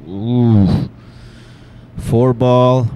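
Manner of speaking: surprised. Real, not acted. Surprise at the four ball.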